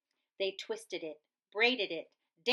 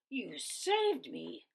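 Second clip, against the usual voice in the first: cried; 4 semitones higher, 3 dB quieter, slower than usual. A narrator's reading. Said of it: "Big Bark cried".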